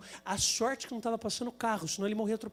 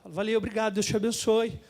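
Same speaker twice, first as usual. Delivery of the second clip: graciously thanking; 3 semitones lower than usual. Retold or imitated. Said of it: "eu falo".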